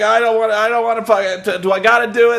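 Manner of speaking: high, whiny pleading; mock whiny dread. Mocking a wrestler dreading the kiss. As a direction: beg out of it. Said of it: "The guy's like".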